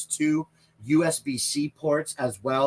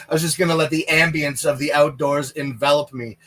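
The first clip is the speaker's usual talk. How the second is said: brighter, a touch louder, amused; laughing restatement; 4 dB louder than usual. Shown as a demonstration. Repeating the joke to the chat, amused and brighter. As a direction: say it again with a grin, half laughing.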